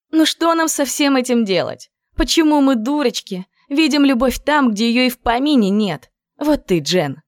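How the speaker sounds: high, bright-voiced girlfriend lamenting; girlish lament.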